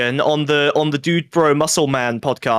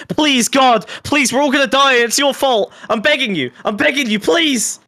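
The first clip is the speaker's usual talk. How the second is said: desperate begging; 6 semitones higher than usual. Acted. Begging liberals to copy Fuentes.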